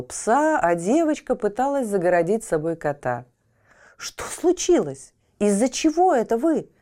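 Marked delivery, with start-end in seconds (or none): 4.0-6.7 puzzled. A narrator's reading. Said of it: "недоумевали дети".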